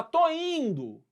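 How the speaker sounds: slow, high, drawn-out "Tô indo"; stalling reply. Retold or imitated. Child stalling his mother with a slow, high drawl.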